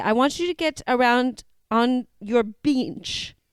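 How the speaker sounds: put-on slow, drawn-out New Zealand accent. Recalling an exercise class instructor, the speaker quotes her: imitating a new zealand accent. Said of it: "New Zealand gal that used to do an exercise class".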